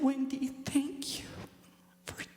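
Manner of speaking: tender thanks. Retold or imitated. Mother thanking her daughter in heaven, tender whisper. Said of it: "she said".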